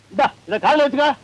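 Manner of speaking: insistent. Acted. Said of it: "நீ ஊரை கூட்டாத".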